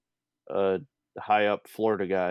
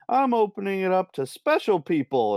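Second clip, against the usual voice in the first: smug VIP host; 9 semitones higher, 3 dB louder than usual. Retold or imitated. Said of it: "the fact that he's like".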